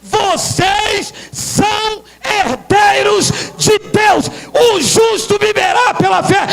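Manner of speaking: high, stretched-out triumphant declamation; fervent preacher's cry; full-force preaching. Real, not acted. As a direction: proclaim it slowly to rouse the congregation.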